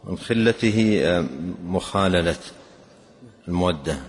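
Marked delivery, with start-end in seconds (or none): 0.0-1.0 خلته said "khillatihi", short i after kha; kasra on the kha. Shown as a demonstration. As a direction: give خلته a short i in its first syllable. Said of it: "بكسر الخاء".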